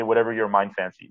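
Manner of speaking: ordinary talk, nothing marked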